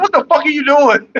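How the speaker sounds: hammed-up girlfriend voice; imitating her outrage. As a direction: play her shocked and annoyed. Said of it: "She gonna be like".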